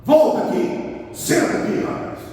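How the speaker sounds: stern, firm talking-to with emphatic commands; serious fatherly tone. Shown as a demonstration. Father correcting his son, serious and firm. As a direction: speak with parental authority, no room for argument. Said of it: "A entonação da sua voz é diferente".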